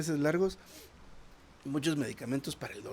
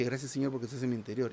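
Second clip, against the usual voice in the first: rattled off fast without thought; fast, offhand prayer; quick rote prayer; much faster than usual. Shown as a demonstration. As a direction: rush through it mechanically. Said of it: "no se refiere a la forma, a la entonación, que dije".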